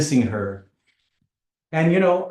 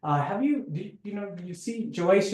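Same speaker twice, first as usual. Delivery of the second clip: higher, questioning voice of someone lost; anxious searching; 4 semitones higher than usual. Retold or imitated. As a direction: ask strangers eagerly, higher. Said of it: "and I'm going".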